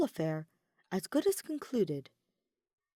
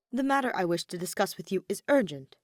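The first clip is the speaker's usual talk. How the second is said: insistent; 4 dB louder than usual. Acted. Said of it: "Ferdinand insisted".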